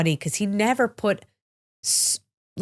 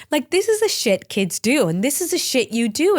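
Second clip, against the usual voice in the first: breathy laugh then higher, louder words; 7 semitones higher, 4 dB louder than usual. Real, not acted. Mother laughing about what kids do, amused.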